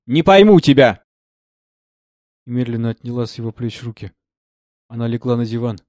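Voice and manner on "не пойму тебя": 1 exasperated cry. A narrator's reading. Anna still crying out.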